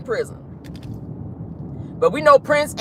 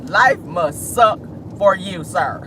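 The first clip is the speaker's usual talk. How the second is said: slow mocking; 4 semitones lower, slower than usual. Real, not acted. Laughing repeat, slower.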